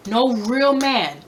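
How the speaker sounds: "real" pushed up in pitch and drawn out; slow, emphatic swell on "real"; stress on real. Real, not acted. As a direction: lean hard and slowly on "real". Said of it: "Emphasis on the real".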